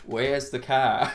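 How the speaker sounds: slow New Zealand "Where's the car?"; New Zealand accent. Retold or imitated. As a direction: drawl "Where's the car?" like a Kiwi. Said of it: "New Zealand people are more like".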